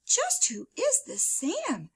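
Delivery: slow curious whisper; wondering to herself under her breath. A narrator's reading. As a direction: whisper it as a private thought. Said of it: "she thought to herself".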